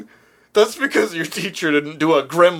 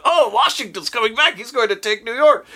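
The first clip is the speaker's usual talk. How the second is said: British soldier alarm; 8 semitones higher than usual. Retold or imitated. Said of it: "It's like".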